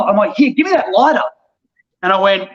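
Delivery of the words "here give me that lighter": higher, urgent call for the lighter; snatching the lighter in a hurry; urgent grab. Retold or imitated. To the tourist, an urgent high demand. Grabbing lighter in gas panic.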